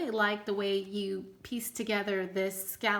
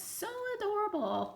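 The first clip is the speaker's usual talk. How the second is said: much higher delighted squeal; 11 semitones higher than usual. Real, not acted. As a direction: let it jump up into a cutesy squeak. Gushing over an adorable tag.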